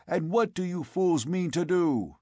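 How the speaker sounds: demanding. A narrator's reading. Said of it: "demanded the Cimmerian".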